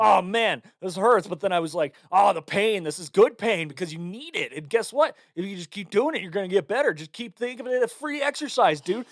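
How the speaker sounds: personal trainer. Retold or imitated. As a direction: coach yourself through the pain like a trainer. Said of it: "you sound like a personal trainer".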